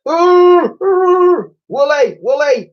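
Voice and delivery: very high, loud frantic calling; desperate cries. Acted. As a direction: call out in panic to calm her. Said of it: "cried the girl".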